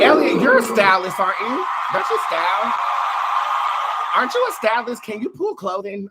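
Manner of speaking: loud, high playful calling out; excited teasing. Real, not acted. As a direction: tease him loudly with a laugh. Teasing shout-out to a friend.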